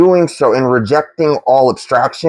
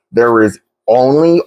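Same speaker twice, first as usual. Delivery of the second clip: "only" set apart as the key word; stress on only. Real, not acted. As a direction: lean on "only" as if written in all caps. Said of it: "I'm putting it in all caps".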